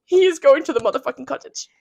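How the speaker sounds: loud, emphatic announcement; dramatic exclamation. Pretend. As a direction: proclaim it like an all-caps text. Dramatic reading of all-caps texts.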